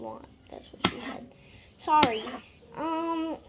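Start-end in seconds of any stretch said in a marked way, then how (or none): 0.5-1.2 unvoiced whisper of the old joke. Cooking vlogger whispering a cheeky joke aside. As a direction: slip the joke in under your breath.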